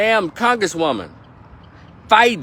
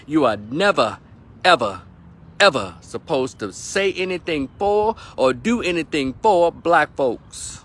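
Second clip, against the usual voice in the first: Claude Anderson voice. Retold or imitated. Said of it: "I'm gonna use my Doctor Claude Anderson voice".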